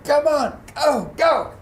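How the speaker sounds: high, loud urging from the sidelines; crowd-style encouraging calls; imitated cheering. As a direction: cheer a runner on. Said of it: "they're cheering".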